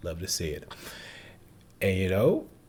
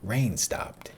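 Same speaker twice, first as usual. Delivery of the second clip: a lightly voiced Forrest, higher and slow; Forrest's reply; 9 semitones higher, slower than usual. Reviewer voicing Forrest answering Jenny, high and slow. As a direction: muse it slowly in a high, simple voice. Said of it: "And he was like".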